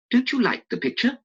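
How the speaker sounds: Basil's voice, pitched high and worried; a hint of an anxious painter. Basil asking Dorian about the portrait, in a high, anxious voice.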